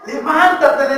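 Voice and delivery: ringing repeat of the quoted order; firm, projected command; emphatic command. Retold or imitated. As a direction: proclaim it firmly in full preaching voice.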